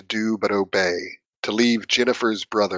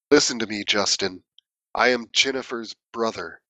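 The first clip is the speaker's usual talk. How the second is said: crying out in agony, held back; agonized voice; 2 semitones higher than usual. Acted. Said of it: "cried out to him in an agonized voice".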